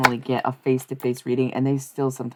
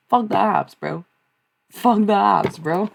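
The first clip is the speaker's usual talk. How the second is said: higher, louder chant; hyped shout; 7 semitones higher, 4 dB louder, slower than usual. Real, not acted. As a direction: shout it out defiantly. Chanting a defiant phrase.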